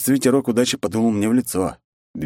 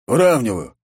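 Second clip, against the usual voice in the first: lightly voiced opponent, louder and firm; Zaruba calling; 5 semitones higher, 4 dB louder than usual. Zaruba answers the raise, a lightly voiced firm call. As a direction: declare the call with confidence.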